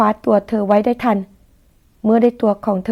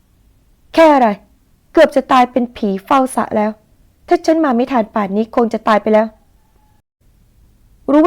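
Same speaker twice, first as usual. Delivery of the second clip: angry scolding; slower than usual. Acted. Daniel berating her.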